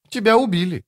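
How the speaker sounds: put-on airy high young man's voice; breezy youth, unconcerned; light and easy. A narrator's reading. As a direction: toss it off lightly. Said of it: "легко ответил юноша".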